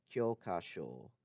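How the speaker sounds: kyokasho with the final O held long. Shown as a demonstration. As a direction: keep the first O short, stretch the end of kyokasho. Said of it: "has a long O sound in the final syllable".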